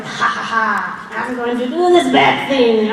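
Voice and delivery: lightly hammed-up villain laugh and line; mock evil villain, half-committed accent; cartoon villain. Actor mocking how bad guys supposedly think, hammed-up villainy. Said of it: "I don't know what that accent was".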